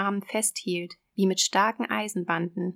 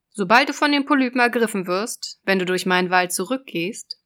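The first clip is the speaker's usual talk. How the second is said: loud, raised sea witch; 5 dB louder than usual. Acted. Witch voice in fairy tale.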